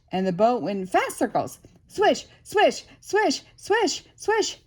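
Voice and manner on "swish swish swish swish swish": swishing. Acted. Boat spinning fast.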